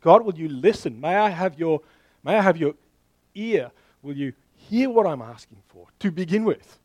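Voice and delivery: crying out. Retold or imitated. Pastor voices Daniel pleading for God's ear, mildly crying out. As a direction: call out to God for a hearing, with some urgency. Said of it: "he's crying out. He's saying".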